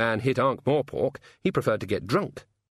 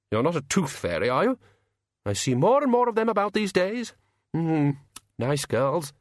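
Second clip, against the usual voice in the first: Jack Frost voice; 7 semitones higher than usual. A narrator's reading.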